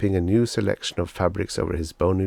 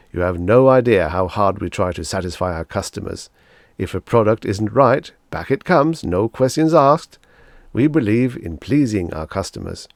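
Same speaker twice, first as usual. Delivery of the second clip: louder, beaming salesman flattery; gushing salesman; 6 dB louder than usual. Acted. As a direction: lay the praise on thick. Salesman Pathis boasts.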